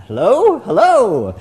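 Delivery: friend's exasperated phone hello. Retold or imitated. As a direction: call hello down the line, fed up. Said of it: "exasperated Sundar".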